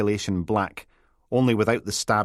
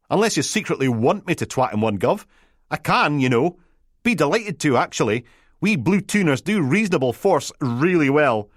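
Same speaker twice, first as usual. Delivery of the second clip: much higher, eager Peterhead constable; flustered Peterhead lass fumbling for the right title; a Peterhead constable calling her boss on the radio, flustered; Peterhead accent; 7 semitones higher, 4 dB louder than usual. Acted. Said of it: "A Peterhead accent".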